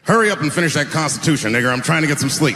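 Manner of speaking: loud, hurried complaint in mock character; lightly voiced founding father barking for sleep; impatient founding father. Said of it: "This is my impression of the founding fathers".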